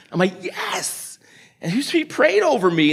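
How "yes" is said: a soft unvoiced yes; whispered yes. Pastor answering the homeless man, whispered. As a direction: breathe the word out.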